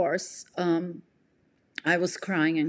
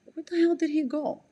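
shocked disbelief; 8 semitones higher than usual. Retold or imitated. Thinking in shock, boyfriend gone.

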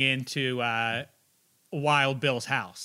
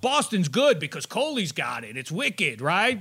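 lightly voiced Boston booster, pitch swooping; mock a friend eager to praise Boston; playful put-on endorsement with swooping tune; imitating fawning friend; 2 semitones higher than usual. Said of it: "He's gotta be like, "Boston's good".

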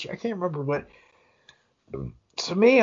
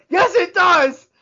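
much higher, louder, slow mock outburst; mock yell; 12 semitones higher, 9 dB louder, slower than usual. Host snapping back at the disclaimer, in a loud mock yell. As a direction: belt it out like an indignant host. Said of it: "And Trey Wingo goes".

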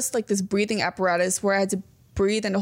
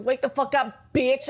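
light mock yelling alarm; Bretman Rock impression. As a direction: toss off an imitated wake-up yell. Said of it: "is Bretman Rock yelling".

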